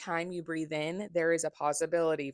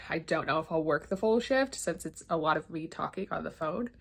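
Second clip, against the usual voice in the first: stuffy, congested voice; blocked nose. Real, not acted. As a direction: talk through a blocked nose. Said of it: "That's what it sounds like".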